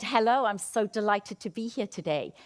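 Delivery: bright engaged delivery; lively, engaged greeting; energetic greeting. Shown as a demonstration. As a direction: greet them like you mean it. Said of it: "engage with energy".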